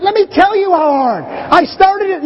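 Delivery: high, whiny plea for sympathy; self-pitying complaint. Retold or imitated. Dad to his kids about his hard day, whining high. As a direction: play the put-upon dad demanding credit. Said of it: "right there, the little man".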